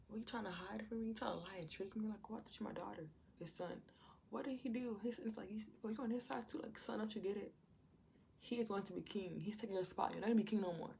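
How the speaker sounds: angry king. Retold or imitated. Saul rants at his son.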